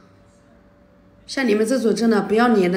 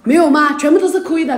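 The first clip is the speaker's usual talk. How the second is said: angry retort; 4 semitones higher, 5 dB louder than usual. Real, not acted. Angry quarrel with friend on stream.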